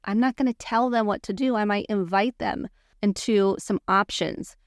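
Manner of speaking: ordinary delivery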